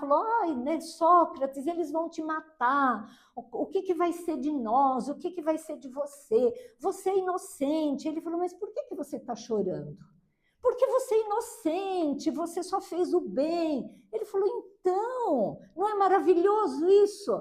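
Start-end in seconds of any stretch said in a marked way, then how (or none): 0.4-8.1 mock sorrowful, mournful lamenting tone. Telling how a condemned man's wife lamented the day before his death; imitating a wife's lament. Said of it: "foi se lamentar".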